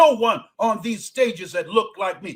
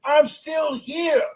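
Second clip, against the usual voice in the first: defiant declaration; 5 semitones higher, much slower than usual. Real, not acted. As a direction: declare it like a battle cry. Defiant refrain.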